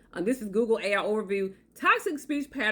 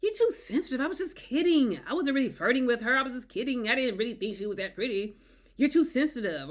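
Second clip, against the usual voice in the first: higher, brushing-off mock tone; dismissive gaslighting; 3 semitones higher than usual. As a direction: wave her feelings away. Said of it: "gaslighting and denial".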